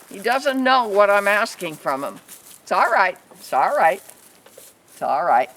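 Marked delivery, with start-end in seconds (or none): 2.6-5.5 low, gentle reassurance to a nervous animal; soothing a nervous calf, gently; soothing murmur. Real, not acted. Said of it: "talk like that".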